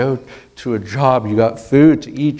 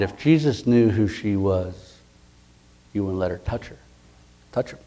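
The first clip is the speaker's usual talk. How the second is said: inner thought; 3 semitones lower, 6 dB quieter than usual. Retold or imitated. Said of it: "in his mind".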